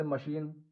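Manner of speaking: मशीन with the I as a long "ee". Shown as a demonstration. Teacher showing learners the long I sound, long ee in मशीन. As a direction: say मशीन as "ma-SHEEN", long second vowel. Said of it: "आई को बड़ी भी बोला जाता है".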